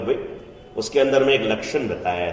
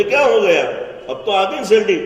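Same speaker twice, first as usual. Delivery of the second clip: loud, high exasperated father; irritated father yelling at crying child; 8 semitones higher, 4 dB louder than usual. Acted. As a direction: demand to know what is wrong now. The speaker as father scolds child.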